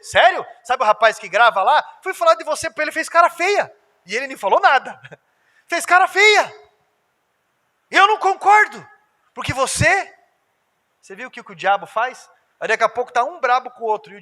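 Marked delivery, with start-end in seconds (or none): 0.0-8.9 mock gossip. Gossip scene voiced.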